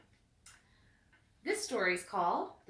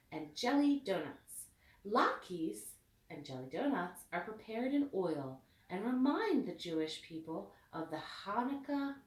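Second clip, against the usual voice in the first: put-on steady storybook narration for a child; reading to children. A narrator's reading. Mother reading Hanukkah book to daughter, storybook voice. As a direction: read the story gently to your daughter.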